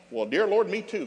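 high, loud gleeful retort; hammed-up relief at the news; mock delight. Father gleefully retorts to daughter.

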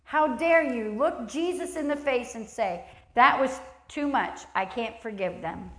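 slow, stern rebuke; harsh preacher's challenge. Acted. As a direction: scold the church hard. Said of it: "I'm gonna be harsh and say".

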